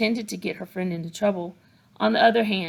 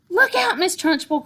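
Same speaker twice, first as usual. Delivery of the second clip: high, loud warning cry; 11 semitones higher, 5 dB louder than usual. A narrator's reading. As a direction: call out the alarm, high and loud. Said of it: "cried Lavender".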